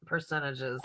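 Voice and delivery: slow, laughing it out; chuckling through the words. Real, not acted. Laughing refusal.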